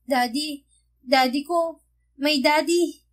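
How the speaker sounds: building excitement; joyful child. A narrator's reading. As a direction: daughter calling her father again and again. Child calling father joyfully.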